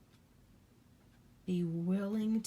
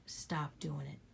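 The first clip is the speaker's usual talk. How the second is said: soft, unvoiced whisper of stop doing it; 5 semitones lower, 7 dB quieter than usual. Real, not acted. To the viewers repeating her advice, a hushed whisper. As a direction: let it land as a hushed secret.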